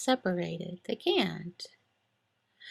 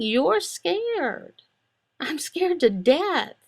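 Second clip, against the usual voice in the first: mock fear; 6 semitones higher, much slower than usual. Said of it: "My emotions are saying".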